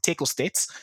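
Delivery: put-on tackle said as tekkle in a Kiwi accent; New Zealand accent. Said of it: "The speaker said that in a New Zealand accent".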